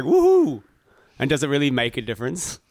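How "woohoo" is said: high, loud whoop of delight; excited cheer. Acted. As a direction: let out a big rising woohoo. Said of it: "Oh, kinda disappointed".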